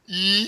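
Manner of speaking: mock drawn-out "yee"; imitated squeal. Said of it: "He's like".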